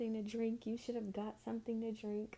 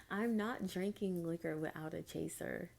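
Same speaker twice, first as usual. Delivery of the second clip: laughing repeat. Real, not acted.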